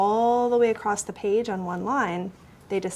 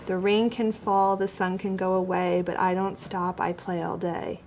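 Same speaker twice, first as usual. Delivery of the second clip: no stops at line ends; run-on reading. Shown as a demonstration. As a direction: read straight through with no pauses. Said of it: "I don't read it like this".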